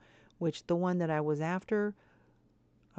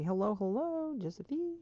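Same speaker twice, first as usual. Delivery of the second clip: lilting, higher hello to a pet Sim; bouncy cheerful hello; singsong greeting; 4 semitones higher than usual. Real, not acted. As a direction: greet her playfully.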